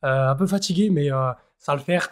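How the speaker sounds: hoarse, worn-out voice. Real, not acted. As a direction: speak through a hoarse throat. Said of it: "j'ai vraiment la voix cassée".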